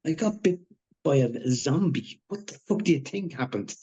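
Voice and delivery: high, biting sarcasm; sarcastic. Acted. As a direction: throw it back sarcastically. Wounded friend snaps sarcastically.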